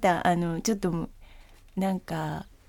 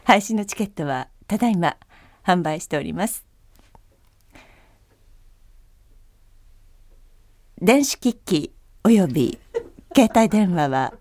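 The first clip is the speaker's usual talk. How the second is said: airplane announcement. Shown as a demonstration. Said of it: "飛行機アナウンス風で。".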